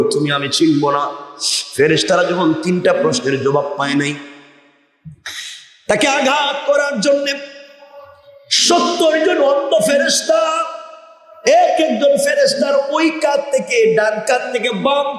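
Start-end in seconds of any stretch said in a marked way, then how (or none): 5.9-15.2 high, stretched-out sermon chant; melodic preaching. Acted. Preacher describes angels sent to strike, high chanting delivery. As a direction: intone it high with long held endings.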